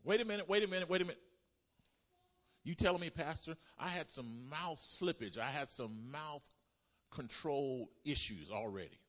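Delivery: high, loud, alarmed interruption easing down; protesting congregant. Acted. Congregant objects to Pastor about mouth slippage, high-pitched protest. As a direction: break in high and incredulous on the pastor.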